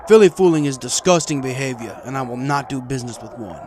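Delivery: loud, scornful refusal; defiant. A narrator's reading. Marty refuses the princess, loud and defiant. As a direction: spit the words in disgust. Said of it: "Marty said defiantly".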